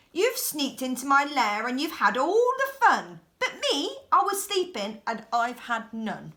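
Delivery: a hint of a sulky bear scolding the guests; grumpy bear. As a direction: complain like a cheated bear.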